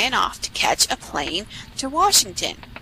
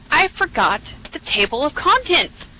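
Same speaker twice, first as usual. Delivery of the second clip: higher, dismayed exclamation; raised-pitch cry of realization; 5 semitones higher than usual. Acted. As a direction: call it out in mild alarm. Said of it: "cried Jack the narrator".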